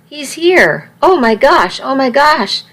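high, rushed, excited babble; excited gushing. Acted. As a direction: gush it out, barely breathing. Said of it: "She was speaking at triple speed".

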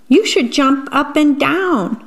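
high singsong urging; encouraging storybook frog. Acted. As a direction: pitch it up, coaxing him to play. Frog giving Jim advice.

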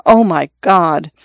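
slow, lightly shuddering dismay; a touch of horror, drawn out; understated shocked whisper of God; mild horrified gasp. Acted. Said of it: "with shudders of horror would occasionally say".

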